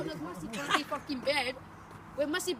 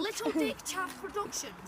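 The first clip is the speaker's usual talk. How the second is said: announcer voice; 3 semitones higher, 6 dB quieter than usual. Pretend. Repeat aloud slowly.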